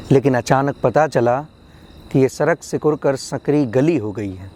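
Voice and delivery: measured poetry reading, phrase by phrase; poem recitation. Acted. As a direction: lift the opening of each thought, then settle. Recites second poem on education.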